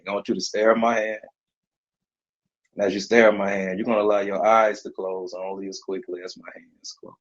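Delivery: steady, guiding hypnotist voice; hypnotic induction. Acted. Starts new induction.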